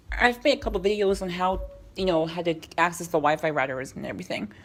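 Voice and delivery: talking around a lozenge; words round a lozenge in the mouth. Real, not acted. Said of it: "I have a lozenge in my mouth".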